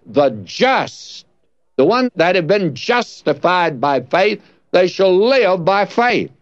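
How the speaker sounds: "just" set apart with a pause after it; stress on just. Shown as a demonstration. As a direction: lean on "just", then carry on reading. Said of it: "you would read it like this".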